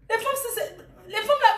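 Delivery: high-pitched laughing scold; real laughter through the words. Real, not acted. Laughing as she scolds the women who didn't pay.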